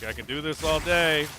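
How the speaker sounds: God taunting the ogre; smug God voice. Retold or imitated. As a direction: drag it out like an untouchable hero. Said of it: "And God's like".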